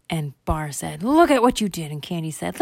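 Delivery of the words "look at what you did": lightly voiced boy, higher and louder; high, loud accusation; accusing little boy. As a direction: blame your sister in a loud, high kid voice. Bar scolds sister in story.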